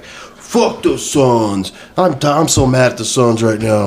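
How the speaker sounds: mock-mad fan, drawn-out opening; retold angry fan. Customer griping to host about the Suns, mock angry. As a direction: imitate a fan grumbling over his team.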